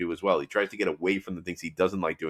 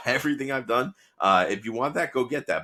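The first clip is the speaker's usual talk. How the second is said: mildly acted irritation, higher pitch; higher, exasperated retelling; pissed off; 5 semitones higher than usual. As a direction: imitate a fed-up boss scolding his protege. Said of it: "pissed off".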